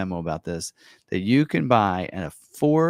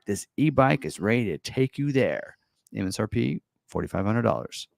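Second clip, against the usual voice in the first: a hint of promo announcer; 3 semitones higher than usual. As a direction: read the ad copy like a trailer voice. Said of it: "like, announcer voice".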